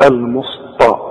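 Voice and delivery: "المسطى" with thick ṭa for light ta; wrong heavy ta. Retold or imitated. Teacher quotes a common mistake, heavy ṭ in "المسطى". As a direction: mimic the error, heavy end on "المسطى". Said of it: "كتير جدًا بيغلط فيها ويقول".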